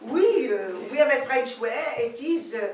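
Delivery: hammed-up French lady accent; comic French accent. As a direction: introduce yourself as a grand Parisian lady. French lady explains snail method.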